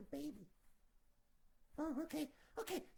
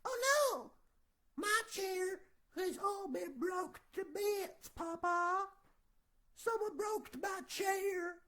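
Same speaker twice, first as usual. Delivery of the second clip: put-on whiny Baby Bear; 3 semitones higher, 5 dB louder than usual. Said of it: "And Baby Bear says".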